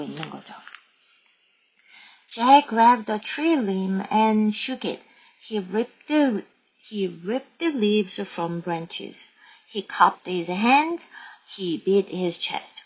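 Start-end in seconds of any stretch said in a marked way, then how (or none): 2.3-12.8 slow, measured read-aloud; story narration. A narrator's reading. Teacher reads Jack's gorilla act to learners, slow narration. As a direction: read the story out slowly, phrase by phrase.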